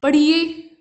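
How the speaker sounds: पढ़िए drawn out syllable by syllable, ending in ए; teacher stretching each syllable; stretched out. Shown as a demonstration. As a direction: spread पढ़िए out like teaching a child. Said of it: "फैला कर बोलना है".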